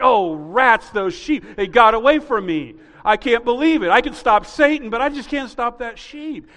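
loud, high, exasperated mock lament; mock frustrated Jesus. Pastor mocking the idea of lost sheep, loud exasperated groan. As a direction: ham up a foiled shepherd grumbling.

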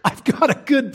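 mock dad snapping at the kid, laughing through it. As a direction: play the fed-up dad while cracking up. Dad scolds crying kid.

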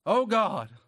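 high, loud plea to God; crying out. Acted. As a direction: cry out to God from the heart. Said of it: "We just cried out".

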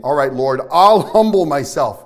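loud, low, effortful declaration; forceful self-willed vow. Acted. Believer vowing to humble himself by own effort, loud and forceful. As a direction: push hard on "humble myself", stretching it.

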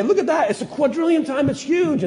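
high, hammed-up astonishment; amazed astronomer. Preacher voices astronomer seeing a huge star, high mock astonishment. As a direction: gape at the giant star.

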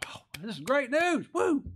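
high, loud mock cheer; hammed-up excitement with a whoop; mock celebration. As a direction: whoop like an overexcited churchgoer. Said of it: "start clapping".

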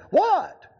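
high, loud startled bark. Retold or imitated. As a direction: jump at the question. Biker's startled reply.

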